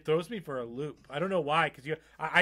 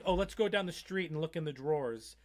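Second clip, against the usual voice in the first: Jersey accent. Shown as a demonstration. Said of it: "Say something. Do it".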